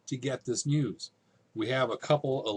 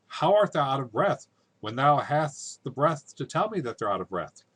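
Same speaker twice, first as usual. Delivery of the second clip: exasperated challenge; 3 semitones higher, 6 dB louder than usual. Acted. Juliet challenging the nurse's out-of-breath excuse, exasperated.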